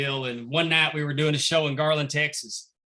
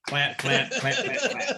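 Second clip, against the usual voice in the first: crowd clapping chant; slower than usual. Retold or imitated. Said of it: "the crowd starts chanting".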